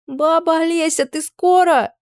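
high, impatient call through a door; impatient girl calling. Acted. Girl at the door calling for Baba Olesya, impatient and high. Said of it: "теперь уже требовательный".

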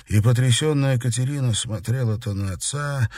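ordinary delivery, nothing marked

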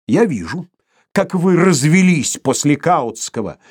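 loud, sneering yell; shrill shout. A narrator's reading. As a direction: shriek it sarcastically. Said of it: "визгливо ... крикнул".

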